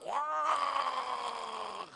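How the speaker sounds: high loud exclamation; high startled wah; mock shock. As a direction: cry out in alarm. Horror at kids watching TV.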